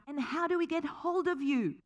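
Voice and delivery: high, loud call from the back of the hall; kid shouting out. Retold or imitated. Teenager in the crowd calls out to the speaker, a high shout. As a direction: call out the question from far back. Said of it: "And a kid shouts out".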